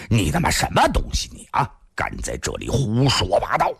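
understated indignant outburst; mild angry cursing. Acted. Named men cursing the thin man, mildly angry. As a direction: scold with a touch of outrage. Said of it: "拍着桌子骂道".

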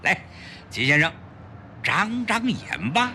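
effusive shopkeeper greeting a valued customer, then showing off his wares; jovial, salesman-like pawnbroker patter; beaming pawnshop boss. Acted. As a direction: talk up the treasure with swooping pitch. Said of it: "连忙喜笑颜开地迎上去".

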